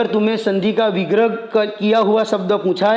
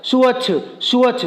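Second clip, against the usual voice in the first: fast; 3 semitones higher than usual. Shown as a demonstration. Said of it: "तो तुम्हें plus निकाल कर fast बोलना है".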